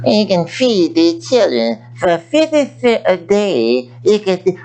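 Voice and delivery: slow, lightly voiced TV charity appeal; a hint of a pleading charity commercial; mock charity ad. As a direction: imitate a slow late-night donation ad. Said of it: "Archie Bunker's daughter".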